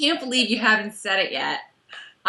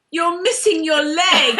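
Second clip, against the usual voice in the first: Claire; 4 semitones higher than usual. Acted. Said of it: "second Bad Claire line number two".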